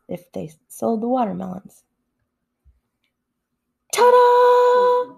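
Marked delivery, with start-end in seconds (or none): 3.9-5.1 high, loud triumphant ta-da; grand reveal. A narrator's reading. Narrator unveiling the donkey, triumphant. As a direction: present it with a flourish.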